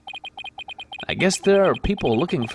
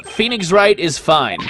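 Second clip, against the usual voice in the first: half-hearted, slow joining in; reluctant compliance; 3 dB louder, slower than usual. Acted. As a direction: go along with the chant reluctantly. Do I really have to?.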